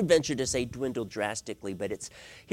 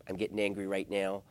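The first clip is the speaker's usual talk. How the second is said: calm admission; 6 semitones lower, 6 dB quieter than usual. Acted. Models calm admission after pause.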